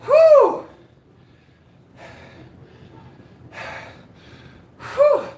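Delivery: loud high gasping whew; hit with smelling salts. Real, not acted. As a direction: blow it out, stunned by the salts. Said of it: "Guys, that smelling salt".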